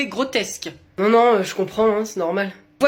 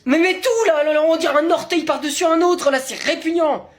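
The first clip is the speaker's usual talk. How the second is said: disgusted; 6 semitones higher than usual. Acted. Disgusted at colleague's feet.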